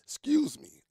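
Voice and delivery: hoarse whisper after a coughing fit; whispered excuse me, throat still raw; whispered apology. Real, not acted.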